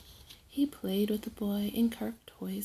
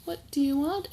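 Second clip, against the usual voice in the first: trickster tale voices; 6 semitones higher, 8 dB louder, faster than usual. Acted. Mother asks the crying child.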